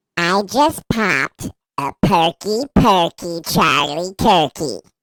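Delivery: robotic voice. Repeating a viewer's comment when asked: vocoder voice. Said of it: "but in a vocoder voice?".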